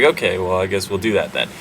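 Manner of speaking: mock meek mumble. Brothers meekly agree to Joseph.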